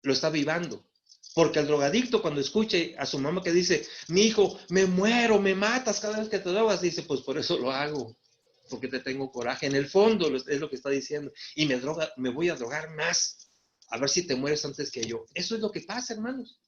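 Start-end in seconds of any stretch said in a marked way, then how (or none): 4.1-6.8 a mild plea from a hurting mother; pleading mother. Retold or imitated. A mother begging her son to stop, mild lament. 7.0-15.2 lower, resentful inner voice of the son; spiteful son. Retold or imitated. The addict answering his mother, low and resentful.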